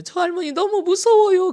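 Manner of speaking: put-on high, loud wail of a scared child; crying child. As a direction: imitate a frightened kid bawling. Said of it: "그리고 울어요".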